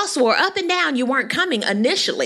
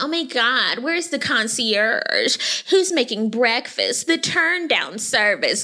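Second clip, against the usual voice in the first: whiny mock diva; slower than usual. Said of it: "Talking about".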